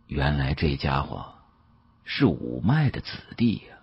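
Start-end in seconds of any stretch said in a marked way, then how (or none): none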